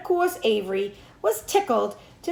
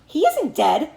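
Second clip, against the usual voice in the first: hollered; 6 semitones higher, 4 dB louder than usual. A narrator's reading. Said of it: "hollered Zuckerman".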